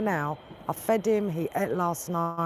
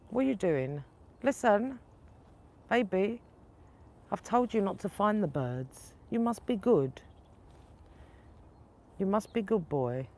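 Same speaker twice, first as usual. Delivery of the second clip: higher sing-song voice for the cat, gently scolding; talking to the cat; 4 semitones higher than usual. Real, not acted. Owner gently scolding her cat about the birds, high pet-talk voice.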